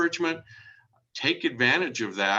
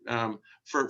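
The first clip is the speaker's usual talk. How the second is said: usual speaking voice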